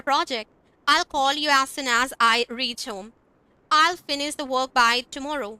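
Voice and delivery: slow, careful example sentences; slow teacher model sentences; slow demo reading. Shown as a demonstration. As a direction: read it out slowly for the class. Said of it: "हम इस तरह से बोलेंगे".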